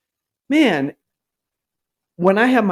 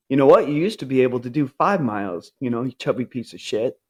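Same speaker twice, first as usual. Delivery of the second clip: low, quick, softer scornful put-down; harsh inner critic; 3 semitones lower, 3 dB quieter, faster than usual. Retold or imitated. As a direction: sneer at yourself like an old coach. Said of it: "what sounds like a basketball coach or an old coach".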